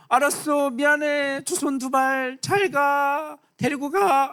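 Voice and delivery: lightly voiced Pharaoh giving up, pitched high; a hint of a beaten king conceding; mock surrender. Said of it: "겨우".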